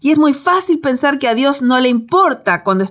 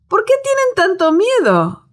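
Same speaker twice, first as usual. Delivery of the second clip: mild questioning; 10 semitones higher than usual. Acted. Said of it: "dijo a sus discípulos".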